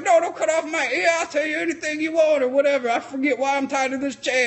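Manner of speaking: mock pleading. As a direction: whine the plea. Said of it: "he's like".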